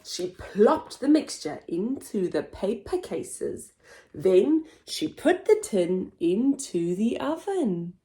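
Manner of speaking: lively picture-book narration; storybook voice; reading to children. Acted. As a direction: read it with wide-eyed expression for little ones.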